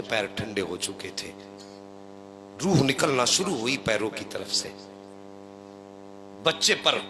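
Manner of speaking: soft, low sermon narration; hushed storytelling. Acted. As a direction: drop the voice for the deathbed scene. Hushed sermon narration of the death scene.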